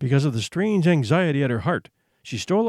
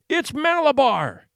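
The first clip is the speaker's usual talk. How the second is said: powerful strange scream; 9 semitones higher, slower than usual. Acted. Boy on the rocking horse screaming at his mother, strange and powerful. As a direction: scream it like something possessed. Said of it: "he screamed in a powerful, strange voice".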